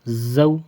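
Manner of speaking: "زو" with a firm, buzzing z; hard z. Shown as a demonstration. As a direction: press hard on the z of "زو". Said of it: "اس کو سختی سے پڑھنا ہے".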